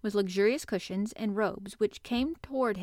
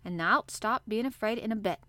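cheerful. Acted. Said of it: "with renewed cheer".

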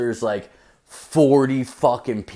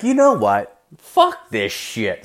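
got mad. Retold or imitated. Comic snapping back at the girl, mock anger. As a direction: flare up, then drag the curse out. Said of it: "So I got mad".

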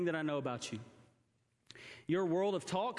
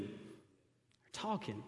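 much lower, soft and slow; hushed awe; 9 semitones lower, 7 dB quieter, much slower than usual. Acted. Pastor marvels softly that children talk. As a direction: let it fall in wonder.

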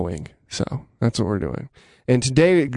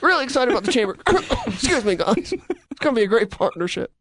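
higher, coughing sick radio voice; hammed-up sick voice with a cough; sick scratchy voice; 12 semitones higher, faster than usual. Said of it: "coughing and, like, scratchy voice".

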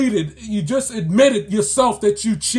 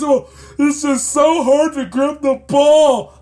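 mock baby whine, slow and drawn out; whiny petulant child; 2 semitones higher, 4 dB louder, slower than usual. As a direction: imitate a baby on the verge of tears. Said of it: "sound like a complete petulant child".

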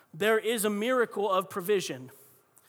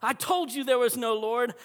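gotcha cry; 3 semitones higher, 5 dB louder than usual. Retold or imitated. Neighbor jumping from behind the bush, crowing loudly. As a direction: burst out as if catching someone. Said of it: "jumped from behind the bush".

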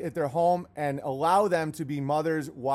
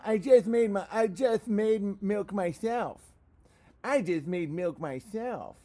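ordinary talk

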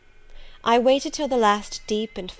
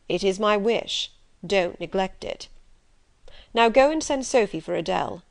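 lightly voiced commanding master. Rochester ordering the governess back to the drawing-room, firm. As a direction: lay down the law to her, firm and brisk.

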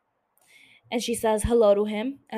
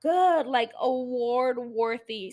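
gushing; 3 semitones higher, slower than usual. Real, not acted. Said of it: "I got all emotional".

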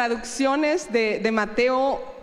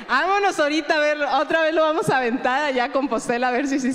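laughing while speaking; faster than usual. Real, not acted. Laughing retelling a quick invitation.

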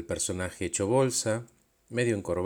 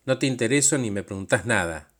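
louder, accusing complaint; raised voice; 4 dB louder than usual. Retold or imitated. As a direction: raise the voice to confront him. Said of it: "le levanté la voz".

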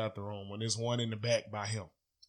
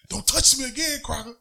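high, loud mock warning to a coworker; imitating old coworker; 13 semitones higher, 7 dB louder than usual. Teller voices his old coworker warning someone, high loud imitation. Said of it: "I felt like dude from my old job".

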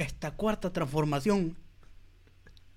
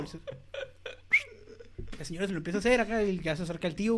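normal talking voice

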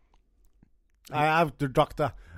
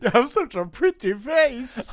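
Texan doctor; 7 semitones higher than usual. Acted. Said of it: "I'm in Texas".

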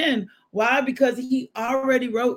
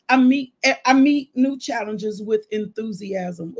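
affirmation. Shown as a demonstration. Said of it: "just repeat after me".

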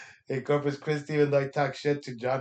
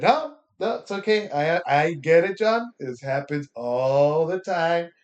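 mock polite reassurance. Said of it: "I just said".

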